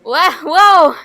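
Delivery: loud, high yelp of alarm; alarmed cry. Acted. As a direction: yelp as if losing balance. Losing control while flying.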